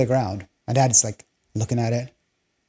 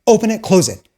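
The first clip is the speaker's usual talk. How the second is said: mock ordering dad; 3 semitones higher, 5 dB louder than usual. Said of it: "so he's like".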